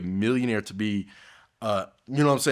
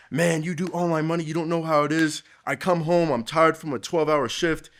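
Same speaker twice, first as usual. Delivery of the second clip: high whiny excuse voice; blue collar dude; 8 semitones higher, 4 dB louder than usual. Retold or imitated. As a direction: whine like a tired worker. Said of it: "they will give me that excuse".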